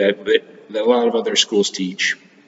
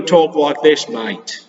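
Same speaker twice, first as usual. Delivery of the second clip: lightly put-on Australian accent with a cheerful G'day mate; a hint of an Australian voice, playful teacher imitation; mild mock Australian accent; 2 semitones higher than usual. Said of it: "That's how they talk in Australia".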